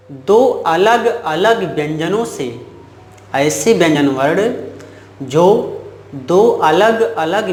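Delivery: slow, phrase-by-phrase definition; model recitation. Shown as a demonstration. Teacher showing students how to state the definition, slow model recitation. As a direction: recite it slowly with long pauses for students to follow. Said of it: "आप ऐसे कहोगे".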